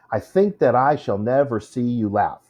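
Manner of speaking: "I think that I shall never see you laugh" in an even iambic beat; metered reading. Shown as a demonstration. Teacher adding feet to the line, metered reading. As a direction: keep a weak-strong pulse through the line. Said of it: "you add two more feet".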